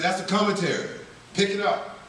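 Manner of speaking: a hint of a bossy old lady. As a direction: lightly play a firm old woman.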